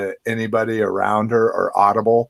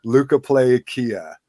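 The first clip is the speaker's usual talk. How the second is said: slow careful. Shown as a demonstration. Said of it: "I can say that six times fast".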